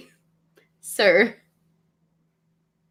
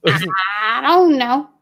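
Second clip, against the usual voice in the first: I don't know drawn out slowly and louder; slow teasing drawl; 2 semitones higher, 7 dB louder, much slower than usual. Acted. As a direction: stretch every word of I don't know.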